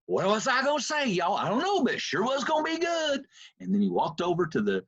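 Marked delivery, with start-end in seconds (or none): 0.1-3.3 high, Southern East Texas twang; Joel Osteen's twang. Retold or imitated. Quoting Joel Osteen after he forgot his line, Southern twang. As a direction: East Texas twang, pitched up and sing-song. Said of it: "he talks with that twang".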